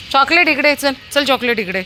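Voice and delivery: high, loud call to the dog. Real, not acted. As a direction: call Chocolate over. Calling a dog.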